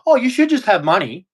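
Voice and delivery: sneering mimicry of a smug critic; a hint of sarcastic sing-song; mocking quote. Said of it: "the first thing yous come up with".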